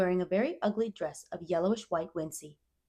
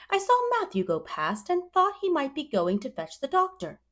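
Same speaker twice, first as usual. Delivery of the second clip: Rachel; 10 semitones higher, 5 dB louder than usual. A narrator's reading. Neighbour Rachel voiced.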